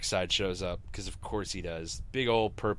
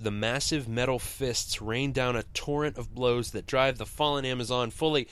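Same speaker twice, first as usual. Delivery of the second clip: booming comic narrator voice; dramatic reading; 4 semitones higher, 4 dB louder than usual. Shown as a demonstration. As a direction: read it like an overwrought comic.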